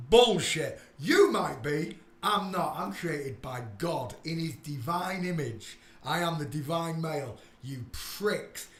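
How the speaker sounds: loud scornful rant; angry rant. Real, not acted. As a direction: tear into them. Ranting at doubters.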